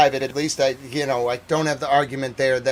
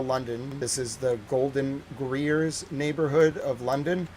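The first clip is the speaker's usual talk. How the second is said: news read. Acted. Reporter opening his broadcast, newsreader style. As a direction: present it like a TV anchor.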